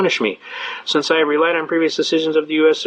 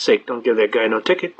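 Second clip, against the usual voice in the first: low mock sergeant voice dropping on ticket; 6 semitones lower than usual. Sergeant on the radio telling his officer, low mock voice. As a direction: growl it down like a weary sergeant.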